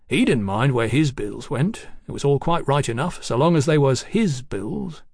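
lightly voiced chatty tradesman king; a hint of a garrulous bill-sticker, unruffled; bill-posting king.

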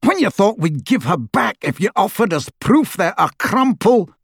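high, incredulous rough sneer; angry taunting. A narrator's reading. Death Eater taunting prisoner between bangs, angry and mocking.

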